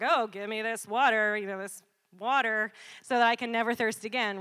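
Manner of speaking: lightly mocking retold sarcasm; mildly sarcastic. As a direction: play her as a touch sarcastic. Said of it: "she's kind of sarcastic".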